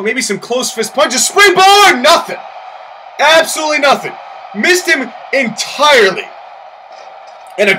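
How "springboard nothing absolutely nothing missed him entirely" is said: excited call. Acted. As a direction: sell the big miss. Excited commentator calling a miss.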